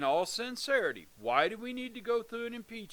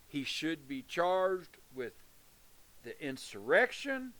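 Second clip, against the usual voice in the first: banging the desk; 4 semitones lower, slower than usual. Real, not acted. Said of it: "Quit hitting the table".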